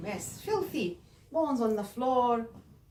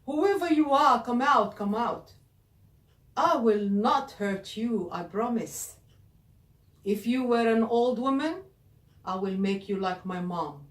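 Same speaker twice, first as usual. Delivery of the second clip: beast calling out; 7 dB louder than usual. Acted. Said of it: "started thinking".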